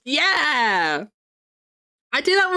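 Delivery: excited yell. Real, not acted. Excited agreement about pooing together.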